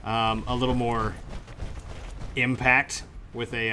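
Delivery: impact said slowly and heavy; stress on impact. Shown as a demonstration. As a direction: lean into the word impact. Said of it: "Impact, haha, get it?".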